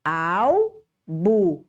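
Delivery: Albo broken slowly, long AU, pause, short BO; teacher's syllable-by-syllable Albo; stress on first syllable. Shown as a demonstration. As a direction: split Albo, stretching the AL. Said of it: "o au é a sílaba mais".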